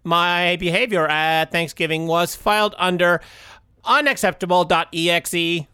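robot voice. Acted. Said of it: "Robot Tim".

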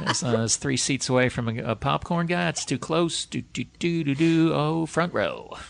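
talking himself through seat choice; inner monologue. Retold or imitated. Acting out his seat plotting.

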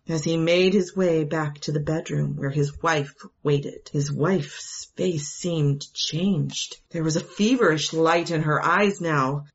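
usual speaking voice

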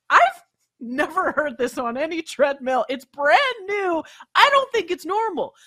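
increasingly high-pitched, emphatic pushback; indignant disbelief. Retold or imitated. Customer disputing the handyman's treadmill excuse, indignant. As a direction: retell firmly refusing his excuse.

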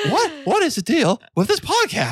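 squeaky high Mickey Mouse voice; high thin cartoon comic voice; piercing squeak. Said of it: "Why do you sound like Mickey Mouse".

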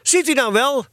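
put-on high-pitched boyish triumph; excited, vindicated exclamation; triumphant cry. A narrator's reading. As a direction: crow it as if proved right. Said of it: "riep Eddy triomfantelijk uit".

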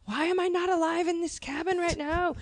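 high, dreamy wistful whine; a hint of mock yearning; mock longing. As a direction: sigh it out like you ache to be there. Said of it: "you're like".

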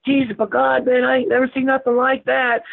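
high imitated Southern drawl, astonished. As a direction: do the Southern biker gasping at the weed. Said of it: "he had that big Southern drawl".

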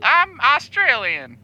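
put-on slow, deliberate Australian accent; put-on Aussie accent, stretched out. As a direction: draw it out as proof of an Aussie accent. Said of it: "Here's proof of it".

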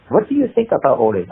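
put-on light French-accented question; a hint of a probing Frenchman; old French man. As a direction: ask with a touch of French accent. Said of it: "he was an old French guy".

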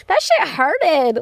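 put-on slow, babyish whine on "hurted"; childlike pout on "That shit hurted"; mock-childish complaint. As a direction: say "hurted" like a little kid.

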